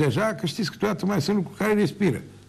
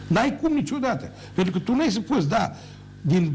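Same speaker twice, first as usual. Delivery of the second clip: heated scolding; 4 semitones higher than usual. Real, not acted. Scolding rival directly, heated.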